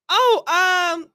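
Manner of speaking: stall, then react as if taken aback; imitated shock. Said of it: "she was shocked".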